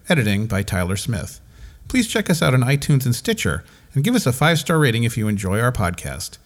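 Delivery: upbeat announcer credits read; podcast outro read. Acted.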